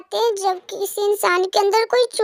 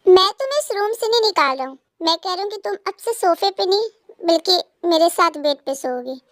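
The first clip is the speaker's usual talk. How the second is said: ordinary delivery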